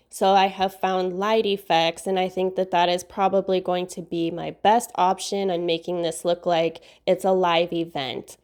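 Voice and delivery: stuffy nose from a cold; nasal voice. Real, not acted. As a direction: speak through a blocked nose, nasally. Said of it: "sorry for my nasally voice".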